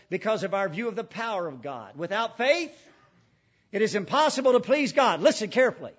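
ordinary talk, nothing marked

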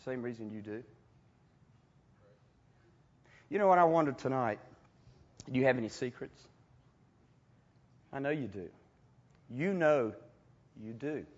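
soft, low searching appeal; quiet pointed sermon challenge; intimate hush. Real, not acted. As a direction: lean in and press them gently. Preacher's intimate challenge to audience.

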